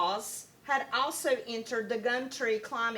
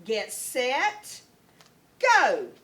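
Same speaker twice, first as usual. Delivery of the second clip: starter's shout; 7 dB louder, much slower than usual. A narrator's reading. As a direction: fire the start like a starting gun. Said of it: "said the kookaburra".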